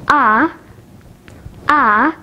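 long, held "ah" as in father; isolated "ah", the vowel of car; long vowel demo. Shown as a demonstration. Teacher showing learners long vowels, "ah" held long. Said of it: "Now let's move on to long vowels".

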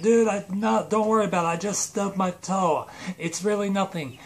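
lightly voiced villain making excuses; Space Voldemort. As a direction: brush it off, calling from another room. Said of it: "Space Voldemort goes from the back".

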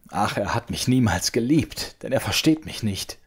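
put-on a hurt girl sobbing out her complaint; schluchzend. A narrator's reading. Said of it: "schluchzte sie laut". (schluchzende Klage, höher und lauter)

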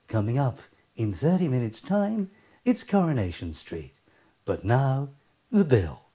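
lightly parodied TV announcer, low and measured; a touch of put-on announcer cadence with pauses; continuity announcer. Announcer trailing tonight's programmes, lightly mocked continuity voice. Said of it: "continuity announcers".

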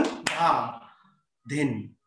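rhythmic bols, one to each beat; measured chant-like tabla count; theka recitation. Shown as a demonstration. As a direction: recite drum syllables slowly, evenly spaced. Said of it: "और ठेका बोल".

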